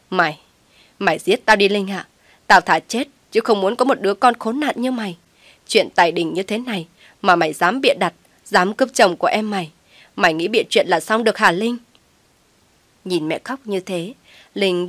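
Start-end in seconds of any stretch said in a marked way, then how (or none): 0.1-11.8 louder tearful reproach; angry weeping. Acted. Weeping mother rebukes her lying daughter. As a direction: cry out in anger and grief. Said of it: "vừa quệt nước mắt vừa nói".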